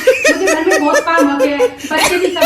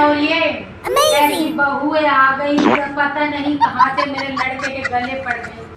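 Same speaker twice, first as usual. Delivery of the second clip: a hint of a whiny mother-in-law, slightly lower and softer; grumbling mother-in-law; 3 semitones lower, 3 dB quieter than usual. Mother-in-law complaining to the audience about her son's wife, mildly whiny. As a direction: sigh about the worthless daughter-in-law like a put-upon elder.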